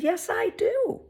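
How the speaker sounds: slow, high, bright reply; animated to child. Retold or imitated. Speaker replying sweetly to the little boy in the store. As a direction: answer like you're delighting a toddler.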